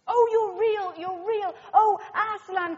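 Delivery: a touch of tearful joy; lightly voiced girl, half crying with relief; mild joyful cry. A narrator's reading. Lucy finds Aslan alive, mild glad cry. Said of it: "cried Lucy".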